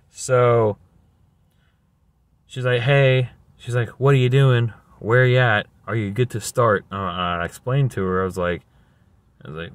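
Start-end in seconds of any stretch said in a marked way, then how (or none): 2.8-3.3 imitating a curt agent, raised and loud; mildly mocking rude greeting, pitched up. Rude staffing agent greets the caller, imitated loudly. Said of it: "passive, aggressive, rudest". 4.0-6.8 imitating a rude agent, raised and louder; mildly mocking, pushy questioning; passive-aggressive. Rude staffing agent questions new worker, mock pushy. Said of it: "passive, aggressive, rudest".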